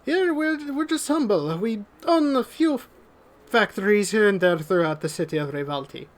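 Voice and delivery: lady showing guests around; lady of the house. Acted. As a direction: play down her wealth with mock humility. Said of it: "and she says".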